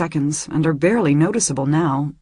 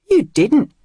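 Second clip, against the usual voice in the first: surprised; 8 semitones higher, 7 dB louder than usual. A narrator's reading. Shocked at paint on cheek.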